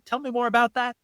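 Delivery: gentle invitation. Shown as a demonstration. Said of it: "My favorite one is".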